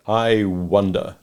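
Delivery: slow, low musing; thoughtfully. Acted. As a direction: ponder it aloud. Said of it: "Mister Darling said thoughtfully".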